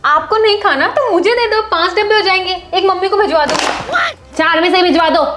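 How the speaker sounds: called-out demand. Acted. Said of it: "ठीक है, चिल्ला क्यों रही हो?". (ऊँची आवाज़ में हिस्सा माँगना)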